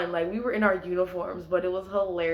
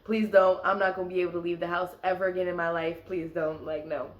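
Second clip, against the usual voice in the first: inner pleading; faster than usual. Retold or imitated. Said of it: "I'm like, in my head".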